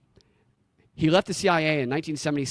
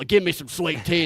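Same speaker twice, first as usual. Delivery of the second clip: put-on Southern accent; 5 semitones higher than usual. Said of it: "we talk like this".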